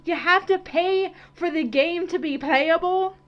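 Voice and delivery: high, loud indignant question; disbelieving and outraged; outraged disbelief. Real, not acted. Indignant disbelief at paid content.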